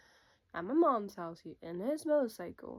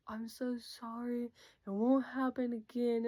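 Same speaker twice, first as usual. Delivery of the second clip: retold pleading apology; 4 semitones higher than usual. Cheating boyfriend apologizing to his girlfriend, mock pleading. Boyfriend begging after being dumped.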